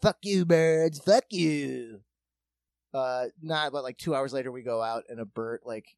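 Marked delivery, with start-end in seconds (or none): 0.0-2.0 defiant yell. Retold or imitated. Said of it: "And I was like".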